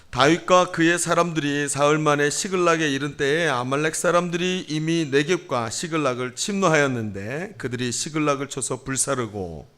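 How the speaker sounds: measured, level reading voice; scripture reading. A narrator's reading. Pastor leads congregation in responsive Bible reading, measured. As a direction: read it out evenly for responsive reading.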